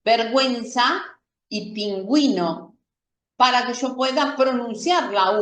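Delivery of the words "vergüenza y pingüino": "vergüenza" con la u sonando, güe; u pronunciada. Shown as a demonstration. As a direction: pronunciar la u de "pingüino" claramente. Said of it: "darle sonido a la U". (diéresis: "vergüenza" con gü)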